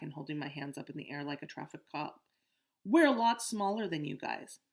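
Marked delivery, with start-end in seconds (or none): 2.8-4.6 raised voice. Acted. Pleading with bullies.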